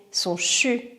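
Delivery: soft breathy chu; chu exhale. Shown as a demonstration. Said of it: "Expire couleur fumée".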